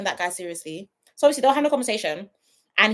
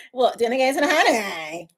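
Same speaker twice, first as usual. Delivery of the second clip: Helena. Acted. Imagining Helena's answer to Harry, mocking impression. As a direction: lightly imitate her coy invitation. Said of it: "Helena will be like".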